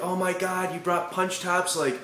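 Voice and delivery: put-on high gushing valley girl voice; imitating gushing girls at a party; mock valley girl. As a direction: gush like an excited party girl. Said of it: "all these chicks are like".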